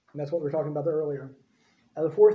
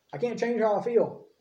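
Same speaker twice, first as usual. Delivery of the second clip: higher-pitched mock excuse; the excuse parroted in a raised pitch; mock complaint; 5 semitones higher than usual. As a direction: lift the voice into a higher, put-on complaint.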